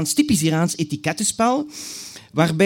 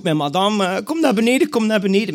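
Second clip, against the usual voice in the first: calling out; 5 semitones higher than usual. Retold or imitated. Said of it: "Ze roept".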